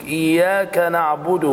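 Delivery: slow إياك نعبد with lips clearly rounded on the "u"; lips rounded on the damma. Shown as a demonstration. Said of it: "ضم الشفتين يا شيخ".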